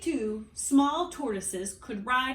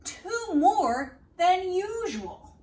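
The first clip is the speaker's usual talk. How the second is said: slow, louder, meaningful aside; knowing aside; 7 semitones higher, 6 dB louder, slower than usual. A narrator's reading. Narrator hinting to the children something's up, slow and knowing. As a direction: let the listener in on the hint. Reading aloud, pointed aside.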